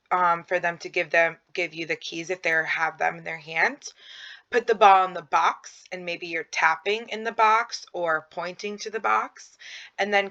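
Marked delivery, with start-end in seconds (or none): 4.5-5.8 put-on louder, clear instruction to a toddler; firm parent cue. Shown as a demonstration. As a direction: spell the task out for a little child. Parent directing child, example command.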